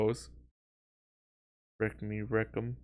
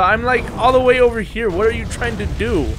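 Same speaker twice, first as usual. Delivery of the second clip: raised, high-pitched exasperation; exasperated calling out; 6 semitones higher, 3 dB louder than usual. Pretend. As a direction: call out high to someone far away. Calling Godzilla over in exasperation.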